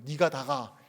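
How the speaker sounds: lightly voiced Gyeongsang question; 경상도 사투리로; Gyeongsang dialect. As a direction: say it in a Gyeongsang accent. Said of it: "경상도 이렇게 할 수 있겠네요".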